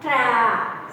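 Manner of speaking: TRAP with a drawn-out ya-like vowel, falling; ya sound in trap. Shown as a demonstration. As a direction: open the A of TRAP into a long "ya". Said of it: "Ya sound".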